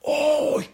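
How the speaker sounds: high, soft drawn-out "ah"; hammed-up spiritual "ah"; mock mystical "ah". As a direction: put on an otherworldly sigh. Mocking mystical idea of deep prayer.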